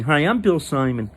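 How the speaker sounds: lightly voiced Bill Simon, a brief mock self-introduction; just a hint of Bill Simon introducing himself; Bill Simon impression. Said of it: "That was actually my impression of Bill Simon".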